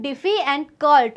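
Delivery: "diffi and cult", the two halves of difficult set apart; split into parts. Shown as a demonstration. Teacher showing students two different parts of the pronunciation, "diffi" and "cult" separated. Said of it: "we are having two different".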